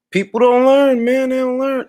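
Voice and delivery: loud, high, fed-up shout of disbelief; exasperated outburst. Real, not acted. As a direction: throw your hands up and yell it. Exasperated rant at a critic.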